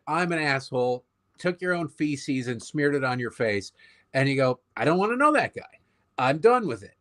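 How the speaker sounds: dismissive walk-away voice. Retold or imitated. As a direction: wave him off like a dealer leaving the table. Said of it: "I'm just gonna go like".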